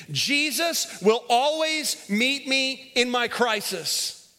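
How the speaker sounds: very slow, every word drawn out. Shown as a demonstration. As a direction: stretch it so the room says it in unison. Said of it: "Say that with me".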